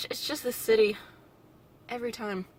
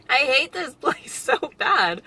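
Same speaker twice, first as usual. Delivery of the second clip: laughing rant; 6 semitones higher, 11 dB louder, slower than usual. Real, not acted. Venting at the city, laughing.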